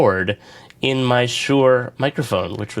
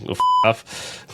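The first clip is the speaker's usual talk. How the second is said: censor beep. Real, not acted. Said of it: "Yes, yes, that's the beep".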